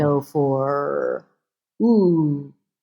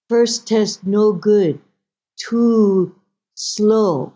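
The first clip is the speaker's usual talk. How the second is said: higher, louder mother, word by word; mother's voice; 3 semitones higher, 4 dB louder, much slower than usual. Retold or imitated. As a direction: list failures deliberately as mother. Mother lists her failed tests.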